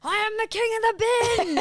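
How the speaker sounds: high, quick mock-triumphant proclamation; imitated boxer's boast. Boxer covered in bin juice, mock triumphant cry. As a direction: crow it like a self-crowned king. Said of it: "he's like".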